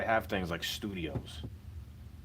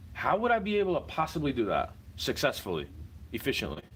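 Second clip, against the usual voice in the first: exasperated rant; 5 semitones higher than usual. Real, not acted. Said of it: "exasperated rant".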